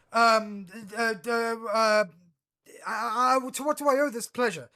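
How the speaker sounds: captain panicking before her lord, stammering; terrified stammer. Acted. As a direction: babble like she's been caught red-handed. Captain caught by Vader, terrified.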